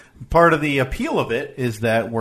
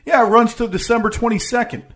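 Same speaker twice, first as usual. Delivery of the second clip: incredulous; 9 semitones higher than usual. Real, not acted. Incredulous at article.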